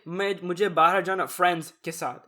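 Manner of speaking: fast Urdu with "friends" in American English; "friends" said the plain English way mid-Urdu; unaccented English word in Urdu. Shown as a demonstration. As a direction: drop a non-accented "friends" into the Urdu. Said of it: "it would sound so broken".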